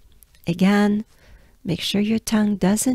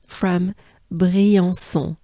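slow, drawn-out Briançon; much slower than usual. Shown as a demonstration. Teacher to learners, slowly modelling the town name. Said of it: "So the part".

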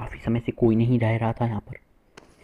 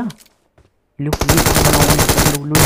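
loud, long drawn-out cry; yelling take that; excited shout; 4 semitones higher, 6 dB louder, much slower than usual. Real, not acted. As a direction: roar it out in triumph. Firing, celebrating kill.

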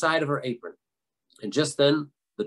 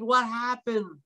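slow, high-pitched wail; stretched high cry without real volume; mock screamed question; 8 semitones higher, much slower than usual. A narrator's reading. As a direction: draw the question out high, startled awake. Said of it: "he screamed".

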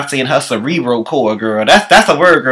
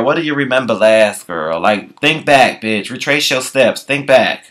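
soothing friend; 6 semitones lower, 4 dB quieter than usual. Retold or imitated. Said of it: "Kelly be like".

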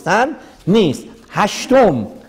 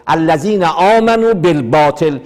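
slow recitation; slower than usual. Shown as a demonstration. Quotes Quran verse in lecture.

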